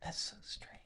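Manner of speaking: barely voiced, near-whispered wonder; hushed aside. Real, not acted. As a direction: murmur it under your breath.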